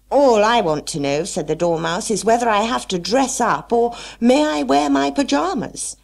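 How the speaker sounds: squeaky small dormouse asking; sleepy Dormouse. Acted. Dormouse asks about pyjamas.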